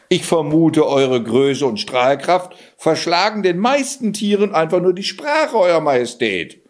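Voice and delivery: lightly voiced sly cat, courtly and smooth; butter up the king as a sly talking cat; flattering cat. Cat flatters the king at court, in a lightly voiced sly tone.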